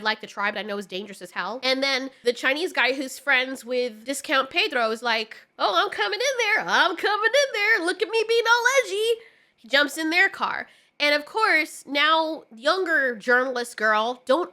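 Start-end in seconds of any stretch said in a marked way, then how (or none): 5.6-9.2 higher, louder hammed-up show-off voice with a laugh; a laughing, higher mock of the friend showing off; mock edgy guy. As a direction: lampoon him as a try-hard daredevil. Mocking the edgy Chinese character.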